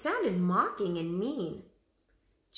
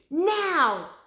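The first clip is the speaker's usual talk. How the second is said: high, loud go signal; sharp command; 10 semitones higher, 8 dB louder than usual. A narrator's reading. Annie signalling Jack to charge the hyenas.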